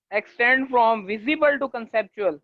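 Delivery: very slow, word by word, for note-taking; slow dictation. Shown as a demonstration. Teacher dictating a definition to students, very slow. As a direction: read it out slowly so they can write.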